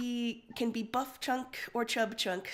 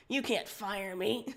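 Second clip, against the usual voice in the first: snorting laugh; slower than usual. Acted. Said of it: "Karkat snorts".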